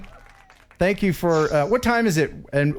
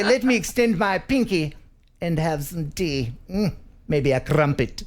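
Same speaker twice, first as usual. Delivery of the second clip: put-on English accent. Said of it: "your attempt at an English accent".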